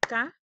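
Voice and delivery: "Ca-ba-yo" with a clear break between syllables; syllable split. Shown as a demonstration. Teacher splitting caballo into syllables. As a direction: chop "Ca-ba-yo" into three beats. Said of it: "Escucha de nuevo".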